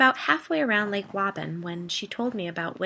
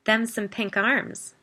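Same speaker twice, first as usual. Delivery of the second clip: slow drawl; 4 semitones higher, 4 dB louder, slower than usual. Acted. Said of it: "Biddy commented".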